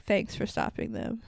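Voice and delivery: breathy imitated whisper, no voice at all; retold whisper. Quarterback secretly thanking Charlie, whispered. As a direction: pass the thanks on under your breath, as if nobody else may hear. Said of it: "he whispers over to Charlie".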